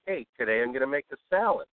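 mildly upbeat, brisk demo; lightly peppy radio-host delivery; a little upbeat. Shown as a demonstration. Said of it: "sound a little more upbeat".

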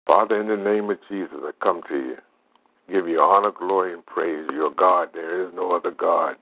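earnest healing prayer. Acted. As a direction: pray over him with conviction. Leads a prayer over the phone.

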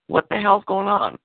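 high-pitched, slowed mock outburst; a mild mock yell, pitched high and dragged out; retold yell. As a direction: replay the blow-up at the phone company. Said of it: "me screaming at them".

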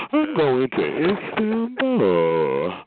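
slow, dopey mock brag; slow mocking boast; mocking a loser. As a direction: draw it out like a clueless show-off. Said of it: "Soon as you get fucked up".

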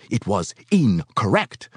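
incorrect weighted like a crime; grave stress on incorrect. A narrator's reading. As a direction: land "incorrect" slow and heavy. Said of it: "He pronounced incorrect as though the term described the most heinous crime".

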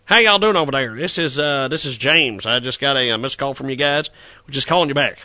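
a hint of a folksy Texan twang; a friendly Texan caller, lightly put on; Texan drawl. Prank caller greets the bill collector in a light Texan drawl. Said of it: "I could talk like Ross Perot".

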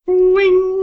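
high sustained ringing noise; imitated phone ring. Player mimics the phone while dialing, high ringing noise. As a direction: mimic a loud phone ringtone.

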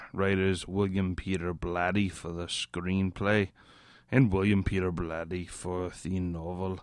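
put-on a light British Peaky Blinders accent reading the cast list. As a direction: read the names like a Birmingham gangster. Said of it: "Sorry, I've been watching Peaky Blinders, talking like this".

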